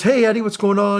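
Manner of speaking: high, upbeat retold hello; lifted, cheery mock greeting; phone greeting. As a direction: imitate a friendly caller greeting an acquaintance. Acts out caller's phone greeting.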